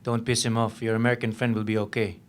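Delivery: snide warning. A narrator's reading. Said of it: "snidely and loud enough for me to hear".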